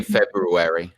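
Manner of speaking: FEBRUARY said "Feb-roo-ary". Shown as a demonstration. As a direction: sound the R-U in FEBRUARY. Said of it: "it's got an R U".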